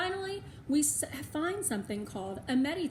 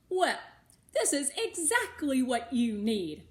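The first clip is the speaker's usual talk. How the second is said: pleased; 3 semitones higher, 4 dB louder than usual. A narrator's reading. Missus V reading printouts, pleased.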